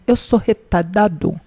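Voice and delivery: "retardado" said as "retadado", r dropped; mock childish "retadado", missing its middle r; child's mispronunciation. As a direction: imitate a small child stumbling on "retardado". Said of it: "não conseguia nem pronunciar adequado".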